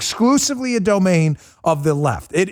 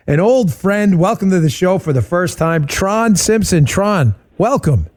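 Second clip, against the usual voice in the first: loud, hammed-up host announcing a guest; mock show host intro; 4 semitones higher, 4 dB louder, slower than usual. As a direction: sell the name like a big talk show welcome. Host hypes a fake guest.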